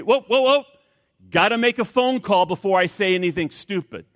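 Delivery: high, loud mock panic to stop yourself; mock alarm. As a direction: throw up your hands in pretend alarm. Imagined reply to angry boss.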